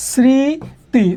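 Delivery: স্মৃতি drawn out as sree-ti, no m; silent m pronunciation. Shown as a demonstration. Teacher dictates the example to students, স্মৃতি slowly without m. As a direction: stretch স্মৃতি into two syllables, dropping the m. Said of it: "শব্দের শুরুতে থাকে তার উচ্চারণ হয় না".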